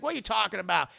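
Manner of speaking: loud, high exasperated scolding; exasperated yell. Retold or imitated. Madea telling Aunt Bam the boys are gay, loud and exasperated. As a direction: throw up your hands and yell it.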